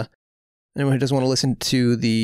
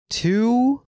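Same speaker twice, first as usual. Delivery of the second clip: high, hammed-up Spanish accent; bad Spanish accent; 10 semitones higher, much slower than usual. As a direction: play a cartoon Spanish host. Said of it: "doing a bad Spanish accent on purpose".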